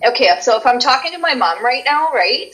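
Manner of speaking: natural Canadian accent, as if chatting to mom; easy Canadian lilt. Shown as a demonstration. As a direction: relax into your home Canadian accent. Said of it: "most intense Canadian as you talk".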